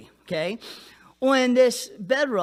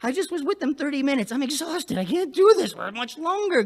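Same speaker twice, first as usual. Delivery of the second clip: mock exhausted churchgoer; 6 semitones higher than usual. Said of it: "They're just like".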